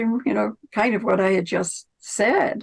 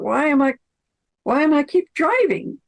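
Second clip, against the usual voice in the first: puzzled retold thought; 5 semitones higher than usual. Acts out man's puzzled thought.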